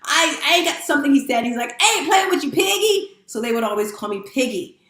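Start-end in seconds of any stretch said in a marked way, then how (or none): 0.0-1.1 mock little-boy yell, higher; pitched-up pretend kid scream; imitating screaming boy. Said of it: "he's screaming". 1.8-3.2 high mock little-boy yell; high-pitched pretend kid scream; imitating screaming boy. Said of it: "he's screaming".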